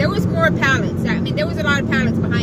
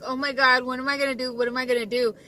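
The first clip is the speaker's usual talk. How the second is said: panicked murmur; 7 dB quieter, faster than usual. Retold or imitated. Retold panic trapped in pallets.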